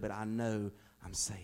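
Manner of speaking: breathy retold whisper; hushed whisper. Pastor retelling dying friend's words, whispered. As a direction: whisper it softly, a dying man's calm certainty.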